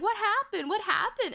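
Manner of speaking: high, insistent questioning; imitation of a probing counselor; mock prying counselor. Counselor pressing her for answers.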